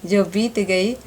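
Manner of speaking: measured, emphatic verse delivery with rising lines; poem recitation. Acted. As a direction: recite it to an audience, line by line.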